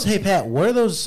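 usual speaking voice

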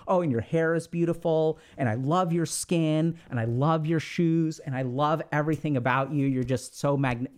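slow, overdone gushing compliments; mock gushing. Mocking someone who over-compliments, gushing. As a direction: gush on and on in mock adoration. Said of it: "Don't keep on".

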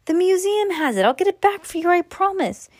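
high frightened promise; panicked pleading. Acted. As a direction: beg in a panic. Boy pleading with mummy.

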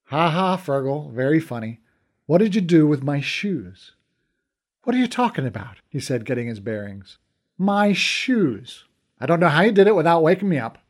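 put-on the indignant teen demanding his shoes back; annoyed young Conor. Conor accuses Fergal over shoes.

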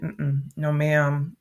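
slipping into Jamaican patois; Jamaican accent. Real, not acted. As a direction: let the Jamaican patois slip out. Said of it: "you heard my Jamaican accent come out".

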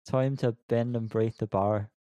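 slow attempt at an Irish accent; a mild, generic Irish accent; host's hesitant Irish accent try. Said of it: "Can you do it in her accent".

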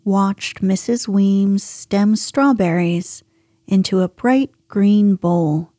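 gentle, even storytelling read; bedtime story narration. A narrator's reading. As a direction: read it like a calm bedtime tale.

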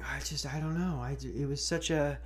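understated frightened hostage voice; mock forced interview. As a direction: mumble it like someone under threat. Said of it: "interviews with the Chinese media saying".

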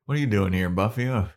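jokey Spike. Retold or imitated. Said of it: "And he's like".

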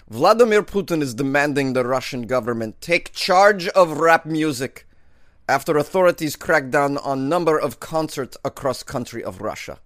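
lightly put-on Russian accent. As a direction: read it with a hint of Russian accent. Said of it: "continue my Russian accent".

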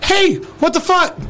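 high, slow, indignant accusing; mock angry confrontation. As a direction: call out a friend who let you down. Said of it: "I was like".

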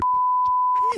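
squealing laugh, high and loud; surprised delighted laugh; high burst of laughter. Real, not acted. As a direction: crack up at the sound effect. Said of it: "I didn't know you could do that".

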